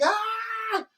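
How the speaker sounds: long high-pitched squealed scream; mock panicked scream. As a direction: let out a hammed-up falsetto scream.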